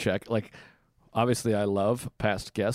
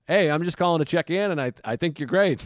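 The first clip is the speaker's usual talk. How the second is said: higher, upbeat reassuring voicemail; demonstrated cheery check-in voice; friendly check-in; 6 semitones higher, 3 dB louder than usual. Shown as a demonstration. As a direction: leave a sweet, friendly message to a friend. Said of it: "leave me voicemails like".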